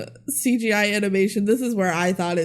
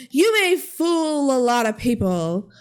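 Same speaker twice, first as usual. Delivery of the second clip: defiant accusation; 3 semitones higher than usual. Acted. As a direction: call her out like a movie villain unmasking. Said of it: "And Xenon says".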